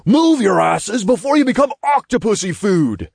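high-pitched imp shouting; bossy imp yell. A narrator's reading. Imp herding civilians to safety, yelling urgently. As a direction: yell at them to get moving.

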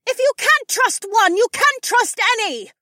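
very high, loud, shrieky mob cry; woman screaming. A narrator's reading. Woman in the mob, screaming. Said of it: "a woman screamed from the mob".

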